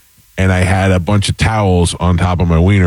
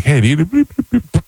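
silly high beeps; 9 semitones higher, faster than usual. Retold or imitated. Mimicking machine beeps, drugged.

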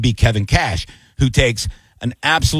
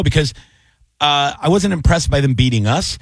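usual speaking voice

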